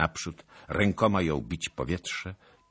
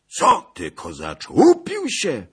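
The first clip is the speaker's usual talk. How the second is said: high, loud exclamation; indignant cry; 14 semitones higher, 12 dB louder than usual. A narrator's reading. Princess calling out at the Cossack, high and loud. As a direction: cry it out at full pitch. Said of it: "zawołała kniagini".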